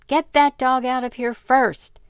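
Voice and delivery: high, loud shriek; loud high girlish shriek. Acted. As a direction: shriek the demand from the chair. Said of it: "shrieked Phoebe".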